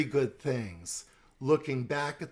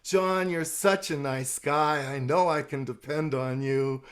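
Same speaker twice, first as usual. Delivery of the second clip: flattering Susan; 3 dB louder than usual. Shown as a demonstration. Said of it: "Susan Barber is at my church".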